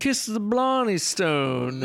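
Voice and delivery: slow, hammy Irish lilt; lightly voiced stage Irishman; Irish accent. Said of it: "That was so Irish".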